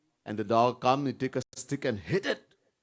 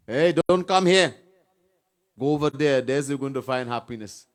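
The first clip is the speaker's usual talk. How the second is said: a hint of Maya calling out; Maya's voice; 6 dB louder than usual. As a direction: lightly voice Maya shooing you away.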